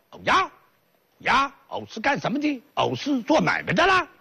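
southern vendor voice. Acted. Southern voice answering Xu Yuan.

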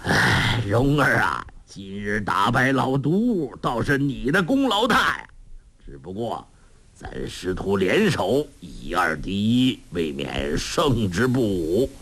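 a hint of an old beggar, starting on a breathy sigh; sighing old master. Old master praises his pupil after the fight, mildly sighing. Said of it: "洪七公叹道".

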